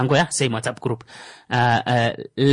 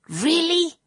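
high incredulous squeak of disbelief; a stunned, embarrassed really; disbelieving really; 13 semitones higher, 5 dB quieter than usual. Real, not acted. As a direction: caught out, quietly amazed. Embarrassed at not knowing months.

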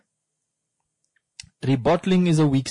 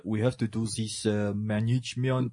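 mock French accent; 3 semitones lower, 6 dB quieter than usual. Retelling a comedian's joke, management in a mock French accent. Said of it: "a joke that Trevor Manoa made".

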